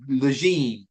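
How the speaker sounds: "Lejeune" said as luh-ZHEEN; tentative name pronunciation. Shown as a demonstration. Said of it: "I think".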